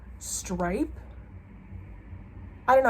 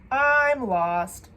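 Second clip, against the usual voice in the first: "I'm lost" wailed louder and higher, mock despair; 4 semitones higher, 6 dB louder than usual. To her viewers, confused about November, a louder mock wail.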